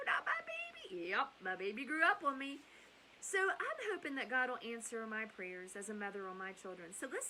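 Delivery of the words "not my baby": whispered. Retold or imitated. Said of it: "And I'm like".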